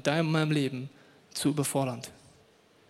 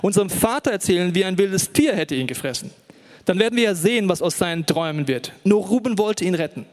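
laut und aufgebracht vorgelesen; laute Brüder; 4 dB louder than usual. Acted. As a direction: wie eifersüchtige Brüder laut anstacheln. Brüder planen Lüge, laut gelesen. (die Brüder hetzen laut gegen Josef)

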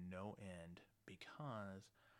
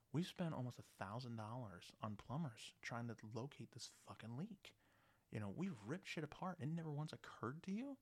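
exasperated outrage; 4 semitones higher, 3 dB louder than usual. Retold or imitated. Landlord confronting careless tenant.

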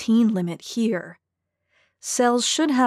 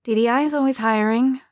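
encouraging; 4 semitones higher, 3 dB louder than usual. A narrator's reading. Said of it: "in what I hoped was an encouraging voice".

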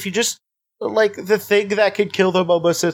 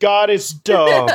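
mock triumphant; 3 semitones higher, 4 dB louder, much slower than usual. Mock triumphant anti-Christian jab.

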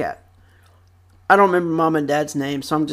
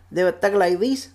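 a slight cartoon gangster tinge; imitated gangster rats; 4 dB quieter than usual. Vlogger repeats the demonstration, light imitation. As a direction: lightly mimic the rat gang. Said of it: "they would literally talk like this".

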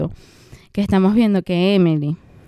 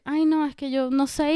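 higher, softer, slow mock whine; mocking Emily; 5 semitones higher, 6 dB quieter than usual. Mocking Emily dodging French, soft slow whine. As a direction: play her as helpless and spoiled. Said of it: "ella es así como que".

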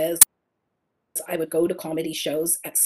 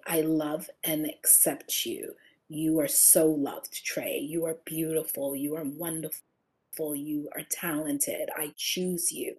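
soft, slow, gentle words to the mirror; tender self-affirmation; 3 semitones lower, 5 dB quieter, slower than usual. Shown as a demonstration. Woman in the mirror tenderly affirming herself, soft and slow. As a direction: speak lovingly to yourself, slowly and quietly. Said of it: "and I will say".

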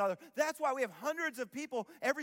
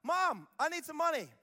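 put-on kid begging mom; 5 semitones higher than usual. Parodying a kid begging mom for money, higher and pleading. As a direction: whine for movie money. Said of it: "we go".

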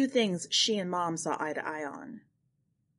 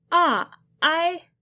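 high, loud startled falter; caught-out stammer; 10 semitones higher, 7 dB louder than usual. Acted. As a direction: stumble for words when caught.

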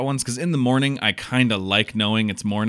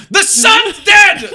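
much higher, louder, slow mock wail; mock horror; 11 dB louder, much slower than usual. Host hams up waking in the dark, slow high mock wail. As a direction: wail it like the world has ended.

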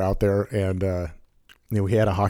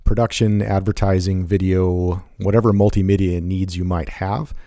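measured podcast ad read; steady announcer-style plug; sponsor read. Acted.

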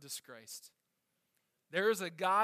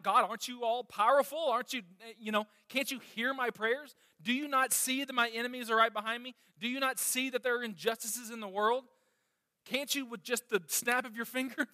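a mild, retold plea, voice a little raised; pleading cry to God; 4 semitones higher than usual. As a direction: lightly act David crying out to God. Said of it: "he cries out".

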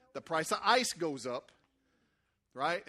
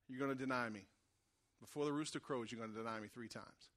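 solemn hushed prophecy; 9 semitones lower, 10 dB quieter than usual. Retold or imitated. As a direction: deliver it as a hushed warning. Jesus prophesies over Peter.

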